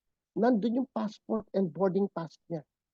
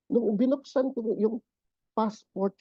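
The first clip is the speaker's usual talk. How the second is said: usual speaking voice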